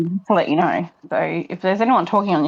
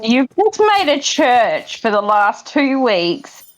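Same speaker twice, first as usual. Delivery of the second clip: slow emphatic statement; 3 semitones higher, 3 dB louder, slower than usual. Real, not acted. Spelling out an absurd remark.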